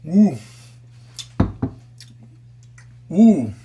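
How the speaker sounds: loud delighted ooh; delighted tasting. Real, not acted. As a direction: savor it with delight. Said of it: "mouth happiness".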